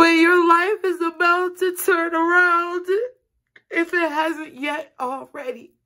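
very high voice, overcome with emotion. Speaker addresses Pisces directly, emotional. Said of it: "I'm so emotional. I can't help it".

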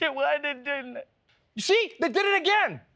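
tearful, very high-pitched sobbing. Speaker mocking someone upset by fighting dinosaurs, mock crying.

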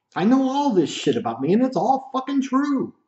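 worked-up, squeaky, high-pitched cartoon mouse voice. Listing his own flaws, including his voice, and getting agitated and worked up. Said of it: "you could even hear it right there".

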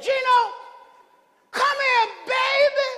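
piping, very high-pitched calling voice. Retelling his sister's greeting in a packed church, imitating Cookie's high voice. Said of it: "Cookie got a high-pitched voice".

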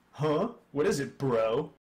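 laid-back surfer voice. Reading a game scene, a royal guard talks with a partner, laid-back royal guard drawl.

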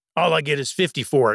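griping, put-upon grumble. A man speaks for himself about that night's ride, grumbled. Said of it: "he grumbled".

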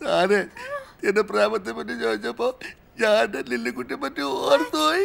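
crying, tearful voice while talking. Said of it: "Why are you crying?".

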